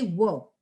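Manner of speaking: worked in one syllable, workt; worked, one beat; correct one syllable. Shown as a demonstration. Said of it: "very subtle sound of T".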